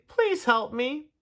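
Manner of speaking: high, drawn-out plea for help; yelled plea. A narrator's reading. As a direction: plead slowly in a high voice. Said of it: "yelled Tudley".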